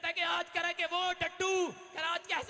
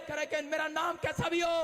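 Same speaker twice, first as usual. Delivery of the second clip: rising, insistent sermon voice; fiery preaching. Acted. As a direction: build the beggar's resolve into a rally cry. Preacher voicing beggar's resolve.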